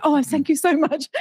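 mock-polite British gratitude. British guest thanking the host to avoid being rude, mock-polite. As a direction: gush politely, sending up British manners. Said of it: "just typical Brit, that, isn't it?".

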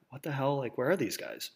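puzzled hush. Retold or imitated. Pursuers fail to appear.

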